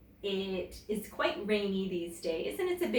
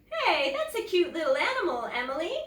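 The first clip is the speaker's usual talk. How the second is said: high, loud chirpy dad call; bright fatherly praise through the window; cheery dad; 9 semitones higher, 4 dB louder, faster than usual. A narrator's reading.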